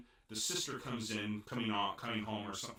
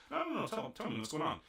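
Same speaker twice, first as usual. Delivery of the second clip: insistent demand; 7 semitones higher, faster than usual. Retold or imitated. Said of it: "He's like".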